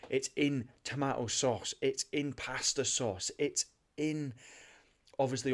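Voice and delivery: passionate, insistent rant; super worked up. Real, not acted. Podcast host on hidden sugar in food, super worked up. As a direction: get carried away by the topic. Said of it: "I'm getting super worked up about it".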